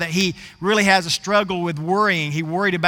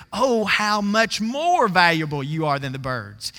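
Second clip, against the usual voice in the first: slow, swelling stress on "how much more"; double and triple emphasis. Shown as a demonstration. Preacher repeating the verse for its emphasis, "how much more" slow and stressed. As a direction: lean long on "more", then ease down. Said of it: "put a double and triple emphasis on things".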